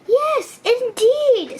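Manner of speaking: high insistent bird; very high little bird. A narrator's reading. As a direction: chirp it back, certain. Cuckoo Bird voiced in story.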